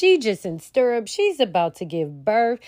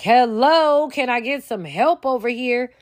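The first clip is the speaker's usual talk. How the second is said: panicked doctor; 3 semitones higher than usual. Retold or imitated. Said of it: "he's like".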